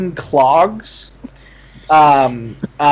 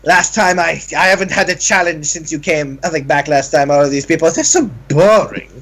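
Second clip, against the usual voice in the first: flamboyant tailor. Acted. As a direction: gush and scoff like a fashion diva. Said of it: "he goes".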